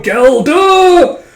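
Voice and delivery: high, loud imitated war cry; battle cry. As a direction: shout it like a wild kid charging. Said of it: "Yoko just going".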